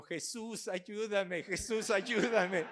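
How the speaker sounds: a hammed-up child begging Jesus for help; preacher mimics a grandson shouting from the bedroom; child crying out. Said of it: "el niño gritando".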